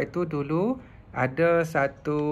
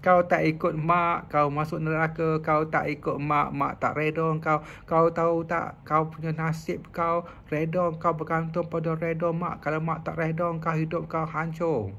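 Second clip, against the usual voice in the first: mild mock threatening mother. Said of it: "mak dia suka ugut dia".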